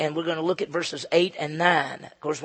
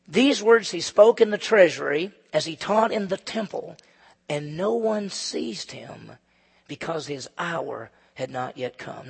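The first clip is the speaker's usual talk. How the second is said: slow, solemn reading of the verse; scripture reading; slower than usual. Acted. Pastor reading scripture to the congregation, slow and solemn.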